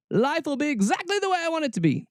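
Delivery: smug mock of someone staying in an echo chamber. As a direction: sneer it like a smug denier. Mocking echo-chamber thinking.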